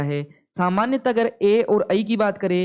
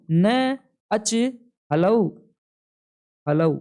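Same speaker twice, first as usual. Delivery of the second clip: न अच spoken very slowly, then हलऊ said twice alone after long pauses; teacher dictating slowly; slow, split sutra; much slower than usual. Shown as a demonstration. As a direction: break the sutra into pieces for the class. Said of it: "ये बोलता है न अच हलऊ".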